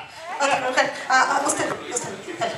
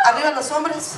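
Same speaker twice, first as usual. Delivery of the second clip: rally shout. Shown as a demonstration. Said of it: "Y dice".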